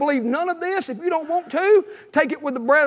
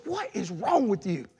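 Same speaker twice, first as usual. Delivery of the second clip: wife's worried question; 5 semitones lower, 9 dB quieter than usual. Retold or imitated. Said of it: "she said".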